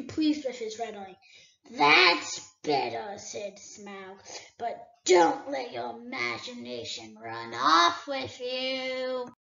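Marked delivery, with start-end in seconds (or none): 1.7-3.2 a great dragon toying with a thief; dragon Smaug. Acted. Smaug answers. 4.6-9.3 a great dragon toying with a thief; dragon Smaug. Acted. Smaug answers.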